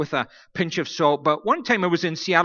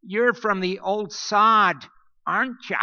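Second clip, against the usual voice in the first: put-on old lady's question; 5 semitones higher than usual. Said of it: "she said".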